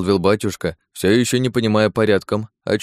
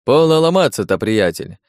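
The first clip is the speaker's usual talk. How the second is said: chiding; 2 semitones higher than usual. Acted. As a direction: chide the stubborn host, pitched up. Подьячий уговаривает упрямого хозяина. (укоризненно, повышенным голосом)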